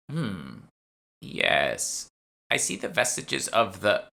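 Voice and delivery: lightly voiced old woman, pondering; a hint of a squinting appraiser; musing old woman. Shopwoman studying Lisa's traces, musing old voice.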